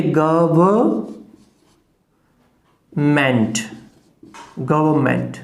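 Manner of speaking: गवर्नमेंट broken slowly into guh-vuh, then ment, no R; syllable by syllable. Shown as a demonstration. Teacher breaks down गवर्नमेंट, R silent. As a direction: split गवर्नमेंट with a long pause and drop the R. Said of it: "ओ जो है ए का sound दे".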